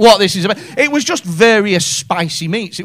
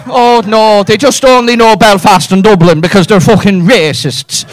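louder mock Dublin accent; 6 dB louder than usual. Comic mocks a local's complaint, in a Dublin accent. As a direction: lightly put on a Dublin local. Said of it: "I've done Dublin".

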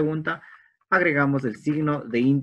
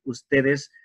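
slow translation; much slower than usual. Shown as a demonstration. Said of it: "teacher translates slowly for class".

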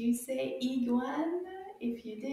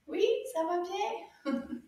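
slow, higher little puppet voice with a laugh; 6 semitones higher, slower than usual. Acted. Puppet Anana answers the teacher's greeting, slow, higher and giggly.

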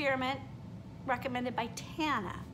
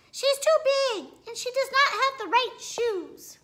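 much higher put-on voice, laughing as she sneers; snooty girl voice; 12 semitones higher, 6 dB louder than usual. Classmate mocks the dinosaur at dance class, high and snooty. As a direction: play the snotty classmate mocking the new girl.

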